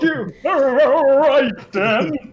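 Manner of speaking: high, loud mock-furious comeback; yelled retort. Player yells back at being told to go to bed, mock outrage.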